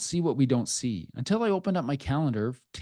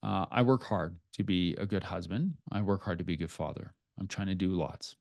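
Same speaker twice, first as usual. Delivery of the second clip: quieter and lower, voice sinking with feeling; a father moved while admitting how hard it was; getting emotional; 4 semitones lower, 5 dB quieter than usual. Real, not acted. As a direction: hold back the catch in your throat. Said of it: "I'm gonna kinda get emotional right now".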